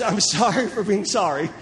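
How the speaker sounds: breaks into a laugh mid-line; laughing at the formula. Retold or imitated. Preacher repeats the formula laughing at its absurdity. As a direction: chuckle through the absurd phrase.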